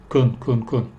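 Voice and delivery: weak, short "kun" syllables; short unstressed kun; reduced can. Shown as a demonstration. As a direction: repeat "kun" with a tiny neutral vowel.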